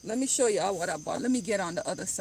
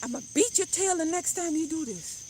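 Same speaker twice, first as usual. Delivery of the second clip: higher-pitched imitation of a threatening mom; lightly acted maternal threat; scolding mother; 5 semitones higher than usual. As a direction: play a mother warning her child. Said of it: "or she said".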